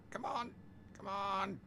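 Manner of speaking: high frantic plea; urgent come on. Real, not acted. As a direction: plead with it, frantic. Urging the train to stop.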